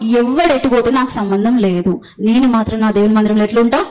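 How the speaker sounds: ఎవడు stressed, the rest slowed; slow resolve. Acted. Preacher giving the church a vow to repeat, slow and firm. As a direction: say ఎవడు ఎటు పోతే నాకెందుకు slowly, as a vow. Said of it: "ఈ విధంగా ఉంటా అని తీర్మానం".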